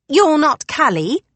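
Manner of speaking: high, loud, slow disbelief; surprised old housekeeper. Acted. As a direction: peer at her, astonished. Housekeeper realizing her mistake.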